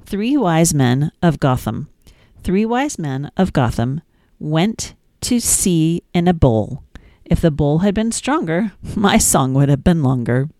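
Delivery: sing-song, lilting nursery rhyme reading; gentle storytime reading; reading rhymes to children. Acted. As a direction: read it like bedtime rhymes for a toddler. Reads nursery rhymes to toddler.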